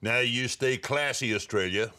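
slow anchorman sign-off; drawn-out newsman catchphrase; Ron Burgundy sign-off. Acted. Host signing off like a smug anchorman. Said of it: "I am not Ron Burgundy".

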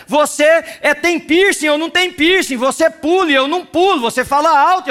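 fiery pulpit preaching; full-force preaching. Acted. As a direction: preach it out to the congregation.

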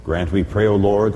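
ordinary delivery

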